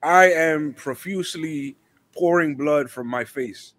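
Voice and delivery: slow, overly formal pronouncement; mock dramatic. Friend joking about a bleeding wrestler, slow mock-formal. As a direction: draw it out like a grand statement.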